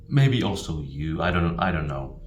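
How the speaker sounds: quiet and unsure, trailing off; hesitant, indirect. Shown as a demonstration. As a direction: hedge every word softly. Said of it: "Real Japanese person says".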